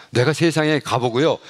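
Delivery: ordinary talk, nothing marked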